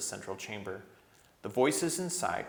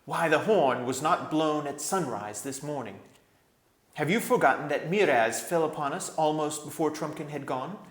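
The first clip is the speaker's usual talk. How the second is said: stern king; 6 semitones higher, 5 dB louder than usual. A narrator's reading. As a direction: weigh each word like a king. Voices King Caspian.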